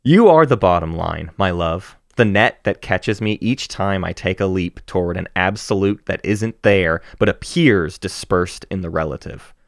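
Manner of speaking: gentle, measured poem read aloud. Acted. Reads poem to friend aloud.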